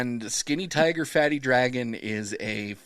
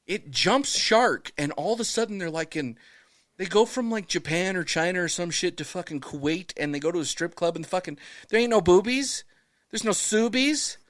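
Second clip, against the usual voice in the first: much higher, incredulous outrage; worked-up rant; 6 semitones higher than usual. Real, not acted. Host ranting to cohosts about the movie, high outrage. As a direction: rant like you can't believe it.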